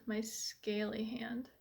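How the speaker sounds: slow whispered aside; whispering. Real, not acted. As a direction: whisper it, slowly and wry. Unvoiced slow self-deprecating aside.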